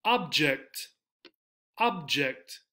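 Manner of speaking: OB-ject, full first vowel; first-syllable stress. Shown as a demonstration. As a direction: hit "ob" in object. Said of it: "The verb".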